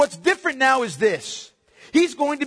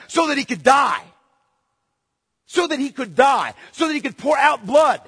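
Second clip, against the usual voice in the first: preaching at full force; 3 semitones higher than usual. Acted. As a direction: press the congregation hard.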